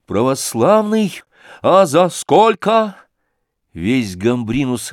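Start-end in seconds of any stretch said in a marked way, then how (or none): 0.1-3.0 sly mockery. Sashka mocks the thug.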